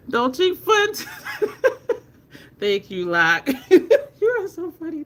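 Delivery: high-pitched, laughing through the words; helpless amused laughing while reading and thanking; real laughter. Real, not acted. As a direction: crack up between phrases, genuinely tickled. Cracking up at viewer's comment.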